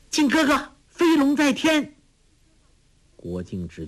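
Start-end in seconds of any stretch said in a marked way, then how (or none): 0.1-1.9 calling out. Acted. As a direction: shout the move name to him. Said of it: "托起大石叫道".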